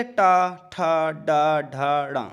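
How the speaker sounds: टा, ठा, डा, ढा, ड़ा slow and spaced, tongue curled back; retroflex consonant drill. Shown as a demonstration. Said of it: "कंठ और तालु पर जोर नहीं पड़ रहा".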